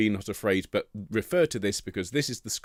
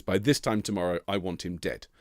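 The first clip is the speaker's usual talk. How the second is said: mild menacing queen; 4 semitones lower than usual. Retold or imitated. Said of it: "And she says".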